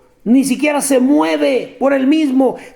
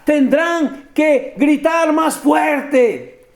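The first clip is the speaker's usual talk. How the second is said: drawn out slow and taunting, a little higher; mock the priests, slowly; 4 semitones higher, much slower than usual. Preacher voicing Elijah mocking Baal's priests, slow taunt. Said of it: "se mofaba".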